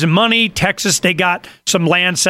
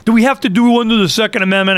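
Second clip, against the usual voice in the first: quick, higher-pitched griping; retold reluctant grumble, rushed and pitched up; mock complaint; 5 semitones higher, faster than usual. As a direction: imitate a grudging objector. Mimics senator's grudging objection.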